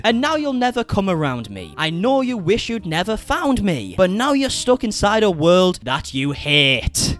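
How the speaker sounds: slow, deliberate Northern English reading; mock-poetic Northern English recital; Northern English lyric recital. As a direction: declaim the lyrics slowly in a Northern English accent. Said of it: "in my awful Northern English accent".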